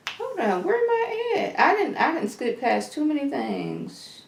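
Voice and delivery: half under her breath, talking to herself; mumbling aside while losing her place; quiet muttering to herself. Real, not acted. Muttering to herself over her notes.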